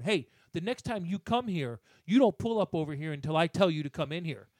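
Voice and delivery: imitating the dump worker's scolding; mock scolding. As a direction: bark it like a petty official. Retold angry safety vest guy.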